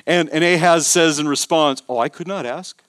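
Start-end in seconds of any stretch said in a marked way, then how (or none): 1.9-2.8 soft, low, falsely humble refusal; hushed sanctimonious modesty, acted out; mock pious. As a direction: imitate someone demurring religiously, voice dropped. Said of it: "It sounds super religious".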